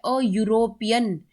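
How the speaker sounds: अ यूरोपियन slowly, with a clear y onset; y onset shown. Shown as a demonstration. Teacher asks how the word starts, यूरोपियन slowly sounded out. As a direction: stretch the opening of यूरोपियन. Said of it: "word शुरू कैसे हो रहा है".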